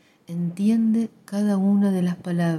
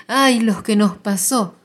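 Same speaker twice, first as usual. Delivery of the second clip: louder, slower cry of grief; loud slow wail; 3 semitones higher, 6 dB louder than usual. Acted. Grandmother crying out to the family, slow loud wail. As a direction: stretch the ay into a loud lament. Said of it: "grita muy fuerte".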